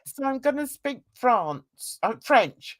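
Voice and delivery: a hammed-up French accent, slow and stretched; bad French accent. Mum teasing her kids in a mock French accent. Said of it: "I try and put on a French accent".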